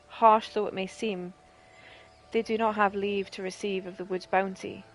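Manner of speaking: a hint of a solemn, formal healer; understated formal NPC voice; lightly voiced healer Charlene. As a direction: read it gravely, like old law. Reads Charlene's lines.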